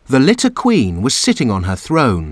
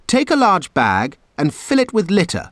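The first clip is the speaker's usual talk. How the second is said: ordered; 7 semitones higher than usual. A narrator's reading. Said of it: "she ordered".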